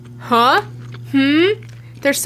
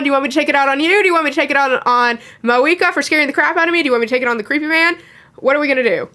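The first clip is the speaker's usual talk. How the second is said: rapid frustrated rant; much faster than usual. Real, not acted. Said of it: "pent up frustration and anger".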